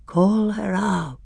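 slow, cold order; a hint of a grim werewolf; lightly voiced grey voice. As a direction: command it slowly and coldly. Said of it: "said the grey voice".

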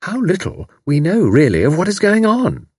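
a hint of a gossiping boarder; sage landlady. A narrator's reading. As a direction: share the wisdom with a knowing tone. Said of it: "wagging her head sagely".

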